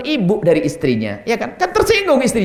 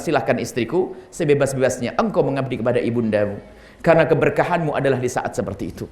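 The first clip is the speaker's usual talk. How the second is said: softer, tender husband's voice; 5 semitones lower, 3 dB quieter than usual. Retold or imitated. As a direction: gently grant the wife permission. Husband voiced lovingly to wife. (suami yang lembut berbicara pelan kepada istrinya, penuh kasih)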